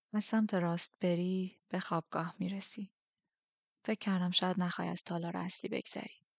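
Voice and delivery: a hint of a soft, measured commander; understated quiet authority; lightly voiced Darkling.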